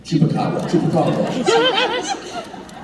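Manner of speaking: Chupacabra said in the teased, signature way; distinctive Chupacabra pronunciation. Shown as a demonstration. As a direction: say Chupacabra as the mocked catchword. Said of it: "making fun of the way that you said".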